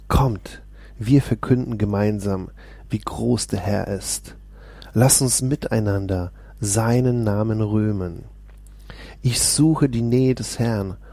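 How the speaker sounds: steady, proclaiming Bible reading; lifted, declaiming psalm voice; solemn scripture reading. Acted. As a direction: read the psalm as if preaching it. Reads Psalm aloud.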